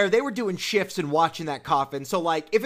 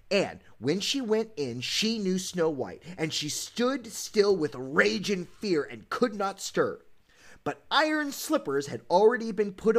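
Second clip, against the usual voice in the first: dramatic story narration. A narrator's reading. Host reading the stepmother's punishment, dramatic storybook narration. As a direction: build the misery, then let the ending fall. Reads the tale's grim ending.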